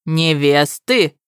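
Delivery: slow incredulous question; disbelieving echo, drawn out; astonished. Acted. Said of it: "изумлённо вскинул брови". (изумлённо переспрашивая)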